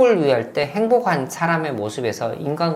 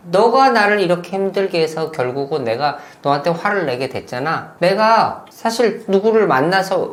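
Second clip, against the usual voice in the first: lightly voiced blaming partner, a touch louder; mock blaming partner; 3 dB louder than usual. Cheating partner blames the victim for his affair, mildly acted accusation. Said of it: "이런 행동이죠".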